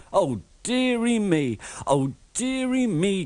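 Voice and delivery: groaning. A narrator's reading. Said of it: "groaned Thomas".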